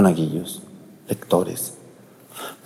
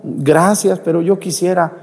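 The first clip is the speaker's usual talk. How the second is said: tearful sick man; 7 semitones higher than usual. Retold or imitated. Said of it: "ese señor estaba llorando".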